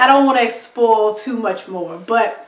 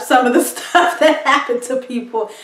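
laughing. Real, not acted. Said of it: "I'm laughing now".

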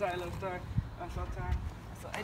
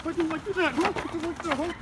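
furious, voice raised at the hobo; angry yelling; 4 semitones higher than usual. Acted. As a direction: tell him off for insulting mom. Defending mom, yelling.

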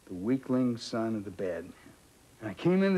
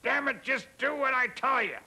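gruff director; 13 semitones higher than usual. Retold or imitated. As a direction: mimic a bossy old director shutting the kid down. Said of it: "he said".

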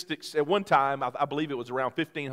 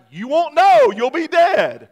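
loud, higher, blunt mock-reasoning; deadpan reply; 10 semitones higher, 11 dB louder, slower than usual. Husband bluntly reassures his frightened wife, loud and joking. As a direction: state the obvious, joking.

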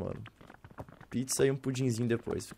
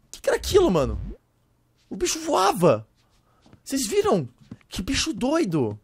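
shocked; 7 semitones higher, 3 dB louder than usual. Real, not acted. Aftermath of the monster.

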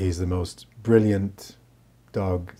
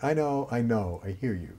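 soothing inner voice; 4 dB quieter than usual. Retold or imitated.

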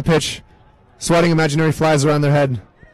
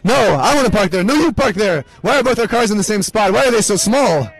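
a light, hammed-up Italian accent; playful Italian parking rant; lightly voiced Italian driver; mock Italian; 2 semitones higher than usual. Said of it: "Italian parking spot impression".

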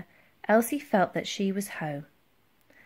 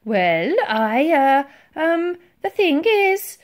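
halting, drawn-out, climbing higher; hesitant; 8 semitones higher, 7 dB louder, slower than usual. A narrator's reading. Titch avoids answering the admiral, hesitant. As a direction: falter with uh and um. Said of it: "he hesitated".

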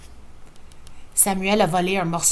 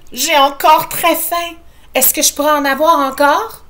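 put-on higher, louder little-boy plea; child begging; 7 semitones higher, 6 dB louder than usual. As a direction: beg mom for more food. Enfant affamé réclame. (petit garçon qui supplie)

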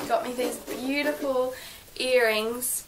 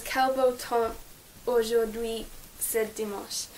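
Quel beau temps read in a rusty French accent, retry. Shown as a demonstration. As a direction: read the French motto in a self-conscious French accent. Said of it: "excuse my French accent".

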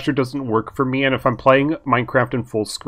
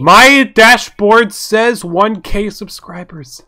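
excited; 8 semitones higher, 8 dB louder, much slower than usual. Real, not acted. Hitting a thousand subscribers.

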